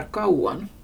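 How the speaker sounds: kauan with a-u-a run together; three vowels together. Shown as a demonstration. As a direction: glide through the vowels of kauan. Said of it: "tre vokaler i rad".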